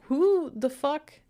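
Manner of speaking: high, slow, outraged rise on "Who the fuck?"; shocked at the mocking voice, drawn out; indignant who the fuck. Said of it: "And I'm like".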